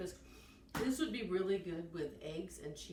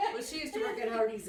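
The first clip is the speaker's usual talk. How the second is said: laughing; 3 semitones higher, 6 dB louder than usual. Real, not acted. Giggling after the muffin mix-up.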